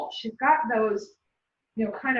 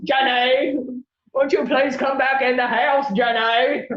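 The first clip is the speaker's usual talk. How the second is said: louder, sing-song calling of the name; mock yelling; 5 dB louder than usual. Owner calling the dog back into the house, mock yell. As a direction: call the dog in from the yard, louder. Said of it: "I'm not going to be outside yelling".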